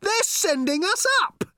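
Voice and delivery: high, loud alarmed yell; desperate shout. Acted. Arthur shouting to Ford, high alarmed yell. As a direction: call out in alarm. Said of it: "he shouted".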